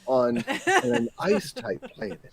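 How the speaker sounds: Doug Chiang. Acted. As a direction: imitate a gently reverent designer, high and hushed. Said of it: "It was the tone I'm focusing on".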